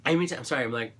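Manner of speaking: talking through a dry throat. Real, not acted. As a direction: speak with a dry, scratchy throat. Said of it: "I'm choking because".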